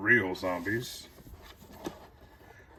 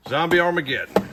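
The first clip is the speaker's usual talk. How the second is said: breathing hard between words; audible heavy breaths while talking; 8 semitones higher, 9 dB louder than usual. Real, not acted. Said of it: "my heavy breathing is upsetting y'all".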